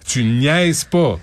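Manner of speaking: slow, drawn-out NIAISES PAS; each word of "Tu niaises pas" slow and weighty; emphatic. Real, not acted. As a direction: stretch out "niaises pas" to drive it home. Hammers home a catchphrase.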